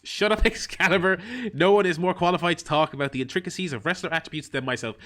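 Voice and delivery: loosely imitating Taz with a laugh; mock Taz. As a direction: bark it like a gruff commentator. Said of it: "not do a Taz".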